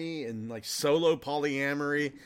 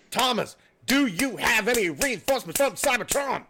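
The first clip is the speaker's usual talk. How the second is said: higher put-on voice of a Black woman; lightly voiced mock impression of a Black woman, pitched up; imitating a Black woman; 7 semitones higher than usual. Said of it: "saying it like a Black woman".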